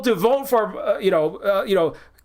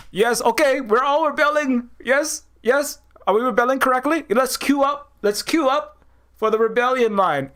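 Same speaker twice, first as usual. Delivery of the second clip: higher-pitched parody of obedient enthusiasm; mock eager rebels; 4 semitones higher than usual. Rebels organizing a queue for rebellion, mock eager compliance.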